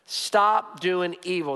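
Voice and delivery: slow, deliberate restatement; slow emphasis. Acted. Pastor restating the first point slowly. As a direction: lay each word down. Slowed summary line.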